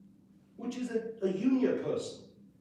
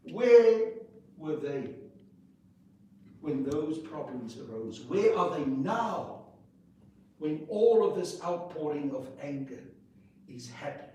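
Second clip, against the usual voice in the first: angry. Real, not acted. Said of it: "I'm getting angry".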